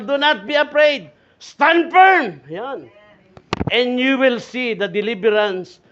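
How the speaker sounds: loud, high scripture proclamation; forceful pulpit reading; emphatic preaching. Acted. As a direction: ring out each phrase slowly to the crowd.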